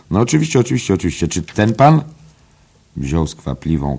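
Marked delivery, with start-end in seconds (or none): 0.1-2.0 high, loud eager repetition; eager librarian. Acted. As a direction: fuss over it like an eager host. Eager librarian answers assistant.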